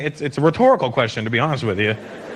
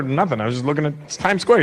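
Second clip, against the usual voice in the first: usual speaking voice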